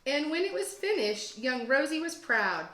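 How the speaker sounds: put-on lively rhyming read-aloud for kids; story narration. A narrator's reading. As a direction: read it like a teacher to second graders, with bounce. Teacher reads picture book aloud.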